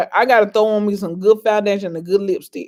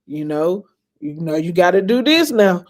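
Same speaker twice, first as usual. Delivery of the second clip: encouraging dad; 6 semitones higher than usual. Retold or imitated. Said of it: "he would tell me".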